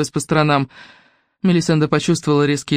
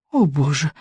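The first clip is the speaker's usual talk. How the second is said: moaning; 3 semitones lower than usual. Acted. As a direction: moan it in despair. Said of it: "простонала Мелисенда".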